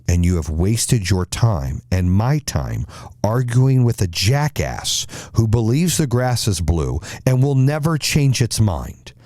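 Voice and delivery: slow, building pronouncement, lightly voiced as a lion; stern lion king. Lion king rebukes the tiger for arguing, mildly stern. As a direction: pass sentence slowly, lifting the pitch toward the verdict. Plays the lion passing judgment.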